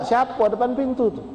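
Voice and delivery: teriak tinggi dari dalam rumah; teriakan ayah. Acted. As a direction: panggil keras siapa di luar. (ayah sakit berteriak tanya siapa di depan pintu)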